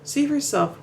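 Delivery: high-pitched mock shout; Jojen. Narrator recalls the shot of Jojen's warning, restrained shout. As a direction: quote the shout high, at moderate volume. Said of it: "that shot of Jojen shouting".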